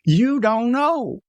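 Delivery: slow and stretched out; slow emphatic. Real, not acted. Warning viewers about strangers, slow and stressed. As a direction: let the warning sink in.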